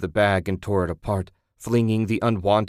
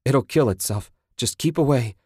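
urgent panted warning, pitched up; panting; 5 semitones higher, 3 dB louder than usual. Acted. Man warning his partner about the beast, panting. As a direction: warn her as if winded and alarmed. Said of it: "Ted panted".

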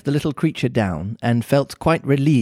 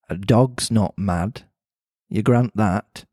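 put-on Mancunian accent; 4 semitones lower, slower than usual. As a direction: lower Mancunian cat voice. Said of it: "pretty Mancunian sounding accent".

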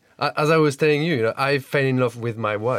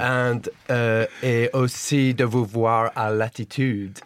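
imitated Briton's careful French; French sentence with English sounds; French with English accent; 2 semitones lower than usual. Shown as a demonstration. Guest describes the festival as the host would, English-accented French. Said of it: "but in an English accent".

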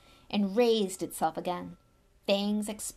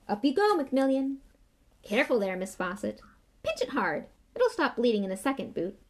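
bustling Lockhart; 4 semitones higher, 4 dB louder than usual. Acted. Lockhart bustling among students.

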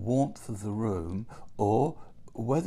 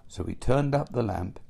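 ordinary delivery

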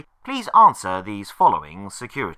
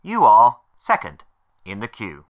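phone menu voice. Acted. Automated phone menu recording.

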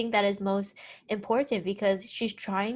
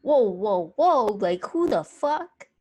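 incredulous whoa; 4 dB louder, slower than usual. Retold or imitated. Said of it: "I'm like".

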